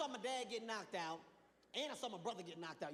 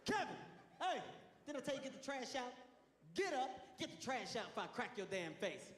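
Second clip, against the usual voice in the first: dad scolding; 5 semitones higher than usual. Retold or imitated. Dad threatening his son over the trash. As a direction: bark it like a fed-up father. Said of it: "He's still trying to discipline me".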